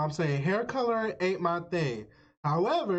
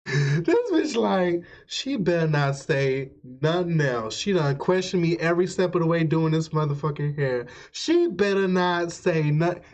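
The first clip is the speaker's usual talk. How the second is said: loud rant; 6 dB louder than usual. Real, not acted. Ranting at the video, laughing.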